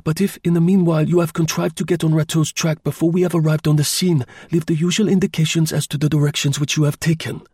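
high, urgent voice of command; curt, authoritative. A narrator's reading. Chauvelin hurries Tournefort off with orders, curt and authoritative. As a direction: send him off with firm orders, pitched well up. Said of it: "he gave a curt command".

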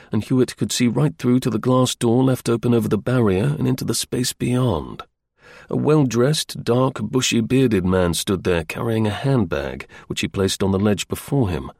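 ordinary delivery

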